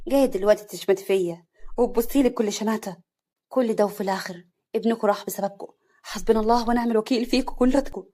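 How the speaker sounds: loud, accusing tirade. Acted. Wife shouting blame at husband and mother-in-law. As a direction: let it all out at them. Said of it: "بصوت عالي".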